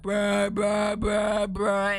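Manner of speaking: loud, repeated "bruh" noise; imitated noise. Streamer imitating the noise bothering her ear, droning loudly.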